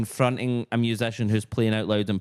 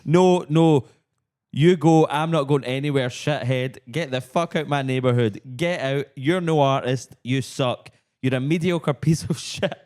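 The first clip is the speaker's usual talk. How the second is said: ranting street man; 5 semitones higher, slower than usual. Acted. Ranting at a street trumpeter, mock furious. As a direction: spit it at the busker like a furious neighbor. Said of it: "trumpet fight lyrics".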